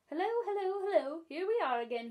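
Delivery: high, loud joyful greeting; joyful scream. Acted. Starling returns from holiday, calling out joyfully. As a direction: burst in with a bright hello. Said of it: "he screamed, joyfully".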